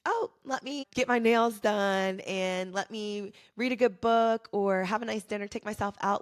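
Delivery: lightly sending up shallow self-care talk; mocking shallow self-care. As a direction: parody a breezy pamper-yourself attitude. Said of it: "it's not just about, like".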